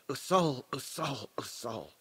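pained lament that dies away; groaning, fading. A narrator's reading. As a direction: repeat the name, fading with sorrow. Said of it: "Stilgar groaned".

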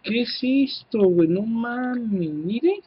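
ordinary talk

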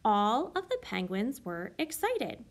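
slow, each word of "All of the penguins were excited." set apart; slow word-by-word read for counting. Shown as a demonstration. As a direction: count the words as you say them. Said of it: "I'm going to count how many words are in that sentence".

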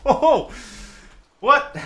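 high, loud, shocked reaction; startled disbelief. Real, not acted. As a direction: blurt it out, still reeling from the fright. Still reeling from the loud noise.

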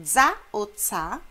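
slow contrast of dza and tsa; Za as voiced DZA, then sharp unvoiced TSA; explosive Z. Shown as a demonstration. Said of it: "o Z é explosivo". (dza e tsa, Z explosivo e pausado)

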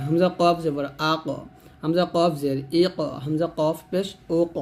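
"আ ক", "ই ক", "ও ক" with the final q bounced; qalqala. Shown as a demonstration. Teacher demonstrating qalqala on vowelless qaf, bounced release. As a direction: release each final "ক" as a thick, echoing q. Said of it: "তখন কলকলা করতে হবে".

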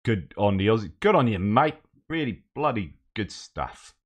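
mock Australian cheer; Australian accent. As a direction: put on a jokey Australian accent. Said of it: "doing an Australian accent".

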